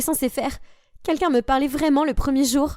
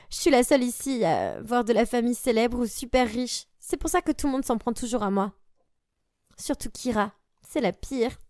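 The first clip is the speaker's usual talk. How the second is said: softer, dejected confiding; sad confession; 4 dB quieter than usual. Acted. Bullied girl confiding in her new friend, softly sad. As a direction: tell it quietly as if holding back tears.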